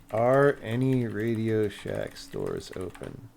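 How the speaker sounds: slow, careful dictation to a voice search; dictating to phone. Real, not acted. Streamer asks his phone whether any Radio Shack is open, in slow, clear dictation. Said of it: "Can I just say".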